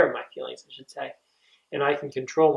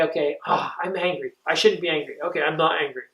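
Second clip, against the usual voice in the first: brushing the anger aside, self-scolding; a counselor who talks himself out of being angry; denying anger. Shown as a demonstration. Dismissive self-denial. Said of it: "We're not gonna say".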